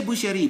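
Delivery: "boucherie" in three syllables, boo-she-ree; e pronounced. Shown as a demonstration. Teacher warning of lost exam marks, e sounded. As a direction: add the vowel after sh in "boucherie". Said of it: "you lose marks".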